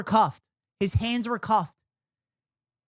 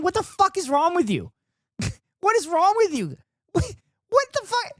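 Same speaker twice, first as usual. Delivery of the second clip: laughing, rising higher in disbelief; 8 semitones higher than usual. Real, not acted. Host reacting to the penis remark, laughing in disbelief. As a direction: crack up in shocked disbelief.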